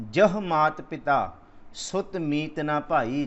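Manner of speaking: very slow, deliberate recital; scripture recitation. Acted. Preacher reciting gurbani slowly before explaining it. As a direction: lay out every word of the verse.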